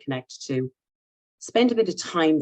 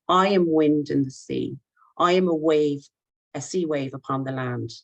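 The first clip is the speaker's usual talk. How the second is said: poem recital. Acted. Reading the first Irish poem to the call, recited. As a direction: recite it like an ancient bard.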